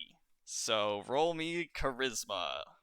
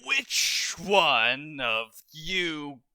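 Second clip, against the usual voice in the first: slow, much louder and higher pirate bellow; gruff pirate captain; 8 semitones higher, 11 dB louder, much slower than usual. A narrator's reading. GM voicing a pirate lady demanding who brought landlubbers. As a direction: roar it at the whole bar like an old sea dog. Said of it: "in a gruff, gravelly voice".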